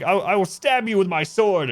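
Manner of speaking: high, loud mock-Shakespearean threat; hammed-up duelist brandishing a threat; theatrical threat. Acting out film duelist's line.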